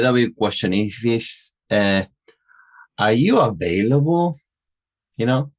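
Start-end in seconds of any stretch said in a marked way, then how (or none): 3.0-4.4 AVAILABLE climbing to the end; rising yes-no intonation. Shown as a demonstration. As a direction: demo question, voice lifting through AVAILABLE. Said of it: "it doesn't go up and down".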